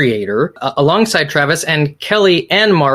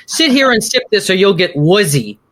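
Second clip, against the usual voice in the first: imitated nurse; 4 semitones higher than usual. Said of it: "and she says".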